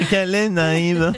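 a hint of a snobbish Paris mayor talking down; Anne Hidalgo impression. Mayor answering the radio host, mildly haughty. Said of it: "Bonjour Anne Hidalgo".

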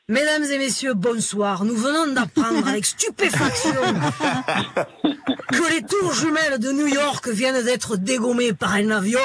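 singsong Provençal news announcement; hammed-up southern French newsreader; southern French accent. Shown as a demonstration. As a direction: break terrible news in a Pagnol-style southern French accent. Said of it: "c'est un petit côté pagnolade".

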